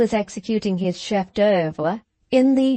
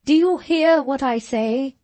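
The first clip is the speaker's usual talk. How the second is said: loud, slow, higher furious command; shouted order; 6 semitones higher, 4 dB louder, slower than usual. Acted. Angry doctor ordering his son out, shouting. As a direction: bellow him out of the room. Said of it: "Then he shouted out".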